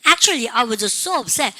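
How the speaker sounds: Actually, I was so upset spoken slowly; slow drill. Shown as a demonstration. Teacher drilling the class, slow. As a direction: draw it out clearly. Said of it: "시작".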